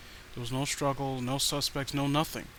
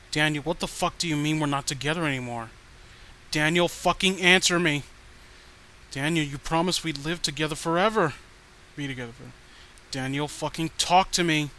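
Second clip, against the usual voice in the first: angry demands; 4 dB louder than usual. Acted. Obsessed ex's furious messages.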